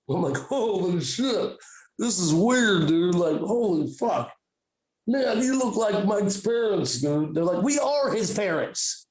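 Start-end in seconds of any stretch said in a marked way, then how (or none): 0.4-7.3 slow, dazed stoner amazement; drawn-out druggy wonder; acid voice. Acted. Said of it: "I'm doing my acid voice now". 7.6-9.1 angry parent. Retold or imitated. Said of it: "they even get angry like your parents".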